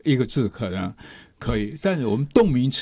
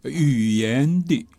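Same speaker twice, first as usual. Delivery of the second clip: slow demo; much slower than usual. Shown as a demonstration. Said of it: "那我就说语言的".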